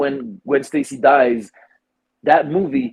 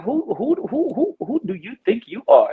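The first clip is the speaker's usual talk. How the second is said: indignant rant; 4 semitones higher than usual. Retold or imitated. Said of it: "I was like".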